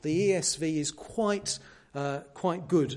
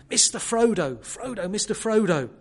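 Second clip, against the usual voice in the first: higher and louder, calling Mister Frodo across the river; shouting after a friend; 5 semitones higher, 6 dB louder than usual. Retold or imitated. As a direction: call out after him across the water. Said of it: "and he shouts".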